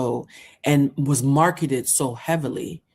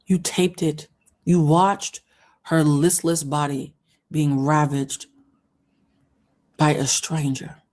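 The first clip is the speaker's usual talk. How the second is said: real anger; slower than usual. Real, not acted. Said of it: "Oh, I'm getting so mad".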